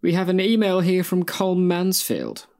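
put-on slow, camp German-accented read. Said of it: "Why do you sound like a camp German man?".

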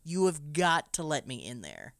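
high, loud frantic pleading; young keeper demanding to see the light, desperate and loud. Retold or imitated. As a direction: beg him loudly, voice up. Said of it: "young Thomas is like".

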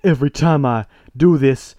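put-on accidental southern accent. Titus blaming his dad, slight southern accent. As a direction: slip lightly into a southern accent. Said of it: "how I got this accent all of a sudden".

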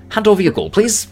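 high, loud sing-out of a winner; gloating demand. Acted. Winner to loser at dice, gloating. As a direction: crow the polite demand up high. Winning dwarf demands the gold.

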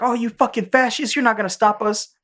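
high-pitched angry imitation of gunmen; mock defiant outrage. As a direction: throw it back defiantly, hammed up. Retold hostage-takers defying the hero.

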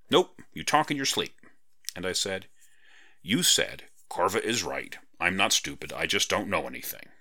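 lightly voiced cheeky girl quoting her friend; smug, playful retelling; teasing Parrot Girl. Parrot Girl quoting sleep talk.

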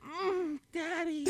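high soft falsetto moan; moaning daddy. Pretend. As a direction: breathe it high and quiet. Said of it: "give me some exclamations".

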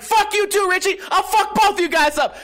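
high-pitched retold outburst; losing it. Running back up to threaten Richie, losing it. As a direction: replay yourself losing it, voice jumping way up. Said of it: "Just fucking losing it".

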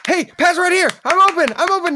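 high loud player yell; high calling out. Acted. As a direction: call for the pass, high.

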